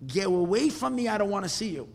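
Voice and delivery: acted annoyed dismissal; angry rejection. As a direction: push him away sharply. Rebbe refuses to see him.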